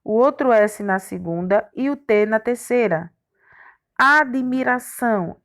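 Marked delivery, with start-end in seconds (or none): 4.0-5.4 slow, measured syllable division; syllables separated. Shown as a demonstration. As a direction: sound out the word for pupils. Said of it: "O D ficou na primeira sílaba". (devagar, dividindo as sílabas)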